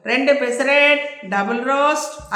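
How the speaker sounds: hollering the order while walking away; waiter calling out. Acted. Waiter shouts the order walking to the kitchen, drawn-out. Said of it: "అరుచుకుంటూ".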